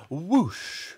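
chicken shriek. A narrator's reading. Chicken launched into the air, shrieking. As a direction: shriek like a startled hen. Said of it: "shrieked the chicken".

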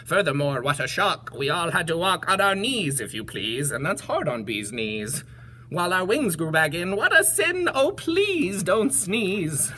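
lightly voiced complaining bee; worried bee. Bees recall the last sneeze, mildly worried complaint. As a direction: grumble lightly as a bee, pleading at the end. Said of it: "buzzed the bees".

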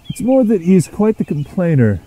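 mildly amused. A narrator's reading. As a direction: explain with a touch of amusement. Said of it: "chuckled Edward".

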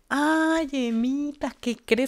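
high, sing-song old lady imitation; cheerful old lady. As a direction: gush like a delighted old friend. Voicing grandma's cheerful friend. (imitando a una señora alegre)

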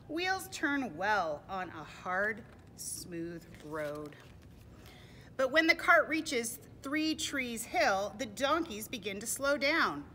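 expressive read-aloud with drawn-out phrases; deliberate picture-book reading; storybook narration. A narrator's reading. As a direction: stretch the key words for young listeners. Reads storybook to children.

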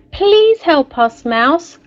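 high, slow, pleading; desperate plea. A narrator's reading. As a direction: beg Mouse to save them. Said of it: "cried the animals desperately".

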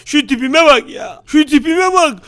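high, slow frustrated wail; exasperated. Acted. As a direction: drag out the frustration. Frustrated at tiny new body. (çileden çıkmış, yüksek ve yavaş)

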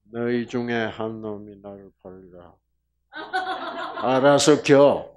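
half-joking glare at the traitor; glaring threat. Pretend. Preacher imagines glaring at Judas, mock menacing threat. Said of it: "가룟 유다 쪽을 딱 째려보면서".

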